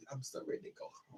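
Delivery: very soft, voiceless whisper; retold whisper. Mother confiding she wants to go home, imitated whisper. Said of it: "then she whispered".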